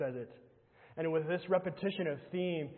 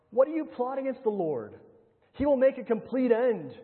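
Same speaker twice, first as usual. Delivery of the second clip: loud proclamation; 7 semitones higher, 6 dB louder than usual. Acted. Preacher to congregation, declaring God's judgment in a loud proclamation. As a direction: raise the voice high and ring it out.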